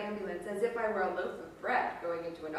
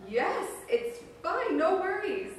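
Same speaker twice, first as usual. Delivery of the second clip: slow, higher reassurance with a hint of worry; mildly worried reassurance; 10 semitones higher, 8 dB louder, slower than usual. A narrator's reading. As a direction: soothe her while hiding your fear. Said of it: "Now Kate sounded worried".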